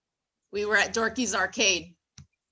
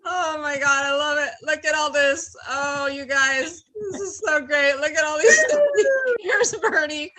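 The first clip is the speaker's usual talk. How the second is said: overjoyed, near tears; 3 semitones higher, 3 dB louder than usual. Real, not acted. Host overwhelmed by fans' shirts.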